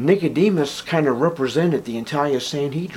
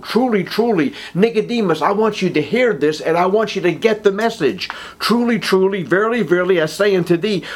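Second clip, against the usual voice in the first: higher, pressing each truly, truly; emphatic Jesus; 5 semitones higher than usual. Retold or imitated. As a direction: urge it home to Nicodemus. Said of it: "where it's very emphatic".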